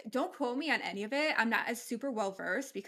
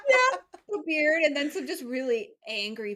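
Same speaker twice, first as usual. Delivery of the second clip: laughing while talking; 4 semitones higher, 6 dB louder than usual. Real, not acted.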